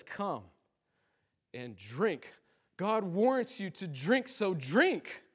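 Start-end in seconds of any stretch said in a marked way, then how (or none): 0.0-2.3 much softer and lower, intimate; hushed invitation. Acted. Preacher voicing Jesus inviting softly, hushed. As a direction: draw them in close, gently.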